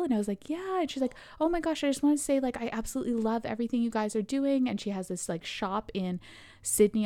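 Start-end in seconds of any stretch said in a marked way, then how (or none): 0.5-0.8 much higher, rising little answer; tentative reply. Retold or imitated. Recognized by a stranger, high tentative answer. 1.4-4.7 imitating an admirer's excited rush; gushing fan. Fan stops them outside fashion show, gushing.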